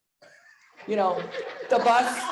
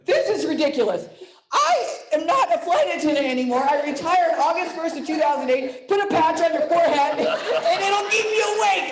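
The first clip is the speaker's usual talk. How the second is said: mock exasperation; 3 semitones higher than usual. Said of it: "This is what I said to him".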